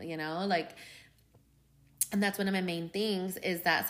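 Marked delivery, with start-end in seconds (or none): 2.1-3.9 words around a coffee sip; talking between sips of coffee; while sipping a drink. Real, not acted. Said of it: "sorry guys, I'm drinking coffee too".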